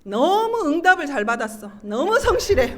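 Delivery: mocking praise with laughter creeping in; sarcastic. Wife jeering at her answered prayer for a diligent husband, sarcastic. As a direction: overdo the praise, loud and sardonic. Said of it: "이렇게 비아냥거리면서".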